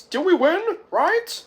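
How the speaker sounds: high, loud squeaked question; high character voice. Retold or imitated. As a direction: ask it in an excited squeak. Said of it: "Chet says".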